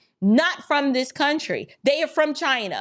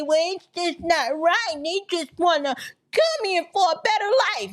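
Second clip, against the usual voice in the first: lightly mocking bleeding-heart voice; sappy pity, hammed up a little; mock sentimental plea; 4 semitones higher than usual. Mocking the sympathizers who let heartstrings be pulled, sappy. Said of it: "tiny violins to be played".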